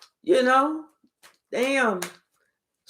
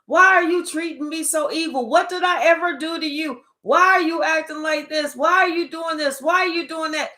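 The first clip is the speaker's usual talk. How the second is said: pleading quote; 4 semitones higher than usual. Retold or imitated. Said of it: "when Collective was telling them".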